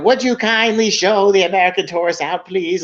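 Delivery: a touch of a stuffy British PM; mock prime minister. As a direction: politely dismiss him like a stuffy PM. Retelling Blair's reply.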